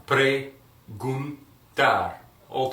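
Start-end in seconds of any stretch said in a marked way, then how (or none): 0.1-1.4 Preguntar drawn out very slowly, syllable by syllable; slowed down. Shown as a demonstration. Teacher slows Preguntar way down so students can follow. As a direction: stretch Preguntar out slowly for learners. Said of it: "Slow down".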